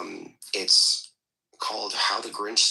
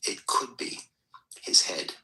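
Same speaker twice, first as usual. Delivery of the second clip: hushed, breathy bedtime-story read; reading the Grinch aloud in a put-on hushed storyteller voice; storybook voice. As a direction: read it like a whispery children's tale. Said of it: "I can't deal with the voice".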